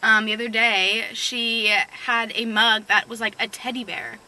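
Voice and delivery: talking while chewing gum. Real, not acted. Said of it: "sorry, I'm chewing gum".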